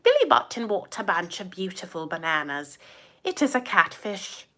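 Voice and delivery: a mild, hammed-up Irish accent; bad Irish accent. Can't do British, a lightly hammed Irish accent. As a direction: lightly put on an Irish lilt. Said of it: "No, it's still Irish".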